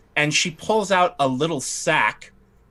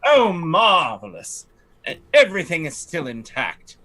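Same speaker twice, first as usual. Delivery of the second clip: a slightly raised, haughty lady's voice; fussy noblewoman; 2 semitones higher than usual. Acted. Lightly raised voice as the lady fretting to the party about her estate. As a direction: play the put-upon aristocrat lamenting her estate. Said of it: "And she says".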